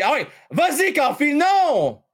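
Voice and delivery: high, sudden rise at the goal; excited cry. Real, not acted. Streamer watching his team concede, excited outcry. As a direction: cheer then groan as the puck goes in. Live hockey goal reaction.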